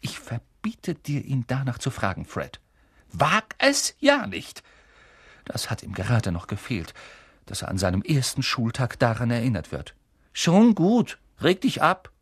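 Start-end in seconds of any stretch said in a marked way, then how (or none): 0.0-4.6 stern mother. Acted. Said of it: "Ihre Mutter wurde plötzlich sehr ernst". 10.3-12.1 placating twin. Acted. Twin calming his mother.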